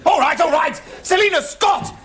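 exasperated outburst. Acted. Exasperated by mocking companions.

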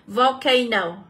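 "volcano" stressed on CA; stress on second syllable. Shown as a demonstration. Teacher reading option C, "volcano" stressed on its second syllable. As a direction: lean on the diphthong in the middle of "volcano". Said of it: "trọng âm và âm A là âm số hai".

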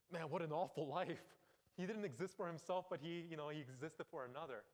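mock complaint. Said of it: "you might think".

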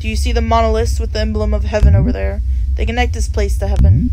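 a calm grim reaper explaining the situation; reaper NPC voice. Acted. Reads reaper NPC dialogue aloud.

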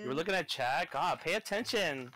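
mock Valley Girl scolding. Streamer scolding friend for watching chat, Valley Girl voice. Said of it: "I got your Valley Girl".

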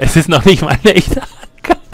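Murray voice. Retold or imitated. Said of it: "Jetzt nervt er".

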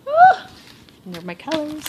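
loud, high yelp of surprise; delighted surprise. Real, not acted. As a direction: burst out in delight. Gasps at gift colors.

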